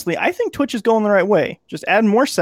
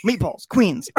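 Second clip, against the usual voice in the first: Brooklyn accent; slower than usual. Shown as a demonstration. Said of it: "Let me see if I can get it back".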